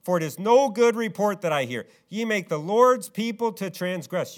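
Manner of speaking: a touch of an exasperated father raising his voice; rising voice. Retold or imitated. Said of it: "his voice is elevating".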